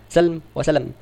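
سلم said slowly, first as salm then as salam; careful name pronunciation. Shown as a demonstration. Teacher to students contrasting two names, slow and careful. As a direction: contrast سلم وسلم slowly, giving the lam no vowel and then a vowel. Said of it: "الأول بفتح السين وسكون اللام".

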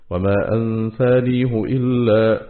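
slow, sustained tajweed reading; measured recital of scripture; Quranic recitation. Shown as a demonstration. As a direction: recite the verse fragment with drawn-out sounds. Quranic words recited within lesson.

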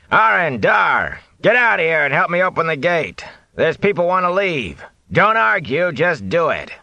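high, loud call to the men inside. Acted. Watchman calling his men to open the gate, loud call. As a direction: bellow for help at the gate.

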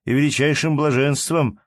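a gallant overflowing with delight; rapturous. A narrator's reading. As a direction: ensign gushing to the lady, mildly rapturous. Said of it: "воскликнул прапорщик восторженным тоном".

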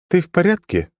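high, level, unchanging tone; monotone girl. A narrator's reading. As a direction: ask it with no feeling at all. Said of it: "Всё тем же тоном".

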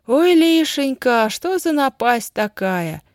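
high, slow wailing lament; громкое причитание. A narrator's reading. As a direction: lament loudly, stretching each phrase. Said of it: "громко причитала тётя Дуся". (причитать нараспев)

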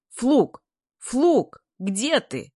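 high, loud hails; calling out. A narrator's reading. Gremushin looks for Fluk among classmates, calling. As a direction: shout for someone lost in a crowd.

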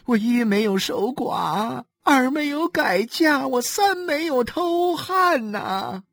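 tearful lament. Acted. Wife laments her fate on the doorstep, sobbing. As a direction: wail it out, drawing out the endings. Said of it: "哭诉着".

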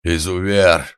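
"Изувер!" bellowed loud and furious; roaring. A narrator's reading. Lady roaring "Изувер!" at the organ grinder. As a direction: blast "Изувер!" out at full volume. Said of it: "И тут же взревела".

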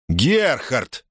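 calling out high, impatient; impatient shout. Acted. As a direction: yell a name impatiently. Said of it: "нетерпеливо крикнул Бетс".

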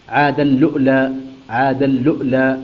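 "عاد اللؤلؤ" with the tanween merged into a doubled lam and a sukun hamza where the waw stands; "عاد اللؤلؤ": ʕād-alluʔlā with a doubled l, no hamza before the lam; Qalun recitation demo. Shown as a demonstration. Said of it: "يقرأها هكذا".

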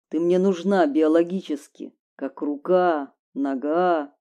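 a hint of a cool lover; lightly voiced man. Man's voice, lower.

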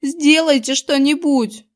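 whiny, slow, high begging; a boy pleading in panic; plaintive plea. A narrator's reading. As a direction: beg pitifully for help. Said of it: "жалобно попросил Зак".

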